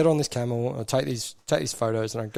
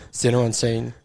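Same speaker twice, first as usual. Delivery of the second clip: raised voice calling across the area; 6 dB louder than usual. Retold or imitated. Officer calling out for his interpreter, raised voice. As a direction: call out for the missing man.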